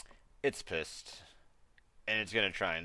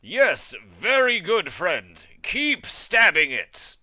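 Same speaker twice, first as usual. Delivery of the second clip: high, bright-eyed warforged praise; cheery robot voice; 7 semitones higher, 12 dB louder, slower than usual. Acted. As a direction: chirp it like an eager construct. Warforged praises ally in character.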